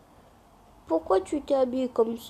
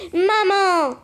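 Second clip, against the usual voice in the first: calling out loud; 4 semitones higher, 4 dB louder than usual. Acted. Child calls out to mother.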